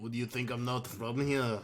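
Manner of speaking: lightly put-on Russian accent. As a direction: try a mock Russian accent. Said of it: "or Russia".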